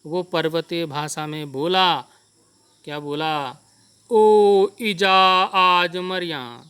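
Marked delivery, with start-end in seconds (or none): 4.1-6.6 a loud, slow wail to his mother in Pahari; frightened cry. Acted. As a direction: cry out in terror as if about to die. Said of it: "तो ज़ोर से बोला, चिल्ला के, डर के". (डर के मारे ज़ोर से चिल्लाना)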